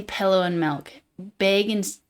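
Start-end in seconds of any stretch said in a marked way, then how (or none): 0.0-0.9 "pillow and milk" as "pellow and melk"; Canadian lowered vowels. Shown as a demonstration. Crediting Canadians with "pillow" and "milk" eh vowels. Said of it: "Canadians say".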